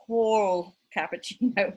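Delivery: tall with the dark L pushed clearly onto the end. Retold or imitated. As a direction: land hard on the L of tall. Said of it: "with the L".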